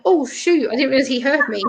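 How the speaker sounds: a touch of oops; mildly surprised. Retold or imitated. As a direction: relive being caught out, lightly. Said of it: "that surprised me".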